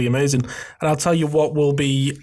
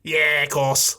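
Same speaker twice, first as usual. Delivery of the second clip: botched Australian coming out Scouse; accidental Scouse accent; slower than usual. Pretend. Co-host attempting an Australian answer, accidental Scouse accent. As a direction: try Australian but slip into Scouse. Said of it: "No, that's Scouse".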